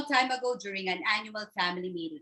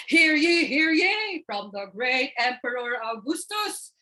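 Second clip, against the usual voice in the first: herald proclamation. Acted. August heralds himself.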